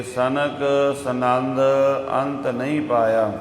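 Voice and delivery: slow, measured verse recitation; scripture recitation. Acted. Preacher quoting scripture to the congregation, slow recitation. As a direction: draw out the final syllables of the verse.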